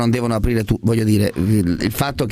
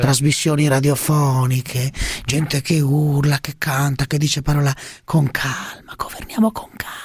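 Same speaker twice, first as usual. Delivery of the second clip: Prodi. Acted. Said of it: "scusi, Prodi".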